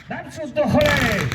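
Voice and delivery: impatient battlefield shout; shouted order. A narrator's reading. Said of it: "ktoś krzyczał".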